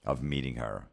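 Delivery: ordinary delivery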